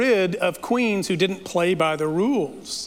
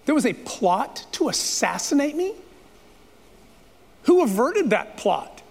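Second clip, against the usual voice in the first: higher, urgent mock alarm from a sleepless king; lightly voiced king, startled and pressing; 6 semitones higher than usual. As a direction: play the king suddenly sitting up in shock. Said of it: "he's like".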